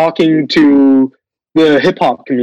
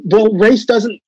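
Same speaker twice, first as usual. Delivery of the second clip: higher, halting imitation of a director; imitated director; 5 semitones higher than usual. Director telling the cast race doesn't matter, hesitant mock explanation. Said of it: "all of a sudden the director's like".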